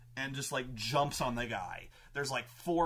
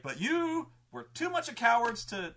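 high, loud accusation; acted scornful outburst; villain's rant; 10 semitones higher, 5 dB louder than usual. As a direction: hurl it at them, pitched way up.

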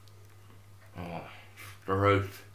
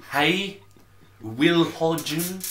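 calling out; 8 semitones higher, 6 dB louder, slower than usual. Real, not acted. Calling out to friend.

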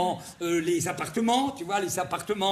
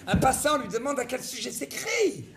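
more irritated; 3 semitones higher than usual. Shown as a demonstration. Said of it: "On peut le faire plus irrité".

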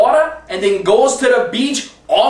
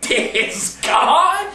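laughing as he shouts it; 4 semitones higher than usual. Acted. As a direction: yell it through a laugh.

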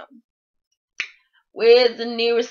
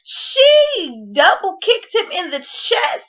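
crying laughing; 6 semitones higher than usual. Real, not acted. Hysterical retelling of fight.

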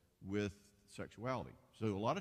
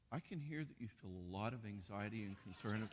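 flat, soft counselor voice; husband answering his panicked wife in calm jargon; deadpan therapy speak; 5 dB quieter than usual. Retold or imitated. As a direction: recite it like a textbook listener. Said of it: "And he said".

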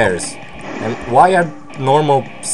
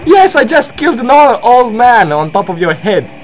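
gloating triumph; 6 semitones higher than usual. Pretend. Bear boasting over an old man's death, gleeful gloating. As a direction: crow over the kill, breaking into a cackle.

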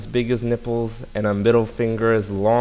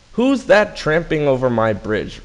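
lightly roared gorilla challenge, higher and louder; mock roar; 5 semitones higher, 5 dB louder than usual. A narrator's reading. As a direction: demand it like a storybook gorilla. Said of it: "roared the gorilla".

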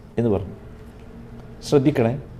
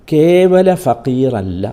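കേവല ഫഖീറല്ല said very slowly and louder, each word weighed; slow emphasis; 4 dB louder, much slower than usual. Shown as a demonstration. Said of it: "ആ പദത്തിൻ്റെ ഭംഗി ഒന്ന് അനുഭവിക്കുക". (കേവല ഫഖീറല്ല പതുക്കെ ഊന്നി)

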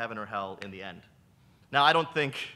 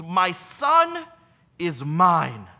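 scream; 3 semitones higher, 9 dB louder, much slower than usual. Acted. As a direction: scream it as a last desperate claim. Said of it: "The mother screams".

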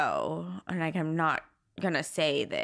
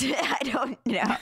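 whispered laugh; 7 semitones higher, slower than usual. Real, not acted. Laughs after harsh line.

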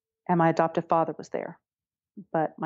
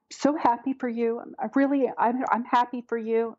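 mock teary gushing; 5 semitones higher than usual. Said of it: "she's just in tears".

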